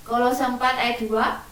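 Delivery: ordinary talk, nothing marked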